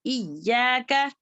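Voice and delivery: इय्याका with a light, thin final K; thin kaaf. Shown as a demonstration. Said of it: "काफ को बारीक करें".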